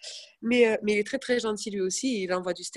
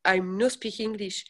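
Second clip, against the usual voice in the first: broken English; slower than usual. Retold or imitated. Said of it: "je fais".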